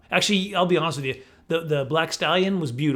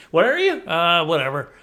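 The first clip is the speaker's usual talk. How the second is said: neglectful bear mum; 3 semitones higher, 6 dB louder than usual. Retold or imitated. Bear mum who wasn't even watching her cub, comic dismissive voice. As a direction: play a careless mum brushing it off.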